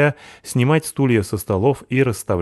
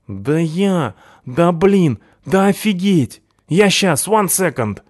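high, loud, tumbling excitement; can't contain the joy; overjoyed outburst; 10 semitones higher, 4 dB louder, slower than usual. A narrator's reading. Punk thrilled by her invitation, excited high outburst.

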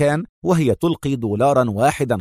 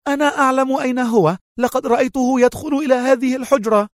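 feigned angry shout; 13 semitones higher than usual. A narrator's reading. Mona storming toward Antonio's room, high fake outrage. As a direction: call it out in pretended fury. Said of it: "وهي تهتف متظاهرة بالغضب".

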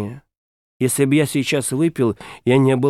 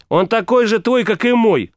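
snapping back; 7 semitones higher than usual. A narrator's reading. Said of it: "огрызнулась княгиня".

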